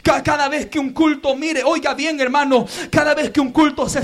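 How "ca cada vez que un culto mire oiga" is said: hushed preaching. Real, not acted. Pastor gently confronting lukewarm churchgoers, hushed preaching. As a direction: drop almost to a murmur to draw them in. Soft intimate appeal.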